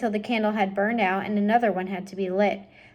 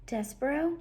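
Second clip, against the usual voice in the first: soft, high, unsure; whispered; 5 semitones higher, 7 dB quieter than usual. Acted. Princess hearing Despero's call, soft whisper. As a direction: breathe the name. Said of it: "she whispered".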